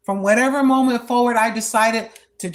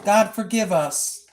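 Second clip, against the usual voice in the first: humble prayer. Retold or imitated. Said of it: "Just like that".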